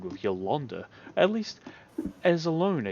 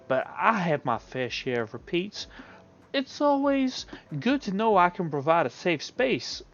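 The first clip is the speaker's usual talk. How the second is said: Yolanda's voice; 5 semitones higher, 3 dB louder than usual. Acted.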